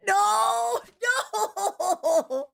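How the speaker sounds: crying. Real, not acted. Moved to tears watching the clip.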